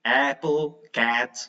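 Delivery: "apple" and "cat" with a wide, open "æ"; wide-open short A. Shown as a demonstration. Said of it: "open your mouth very wide".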